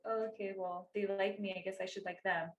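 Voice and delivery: soft, timid giving-in, imitating her past self; meek resignation. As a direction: go along with it very quietly. Voicing her old meek acceptance.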